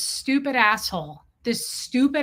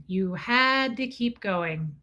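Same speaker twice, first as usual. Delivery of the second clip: usual speaking voice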